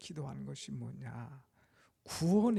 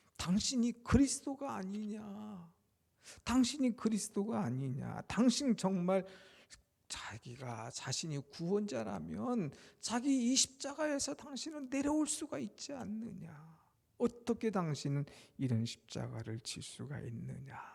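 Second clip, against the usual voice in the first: high, mocking, taunting tone. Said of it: "하면서 조롱합니다".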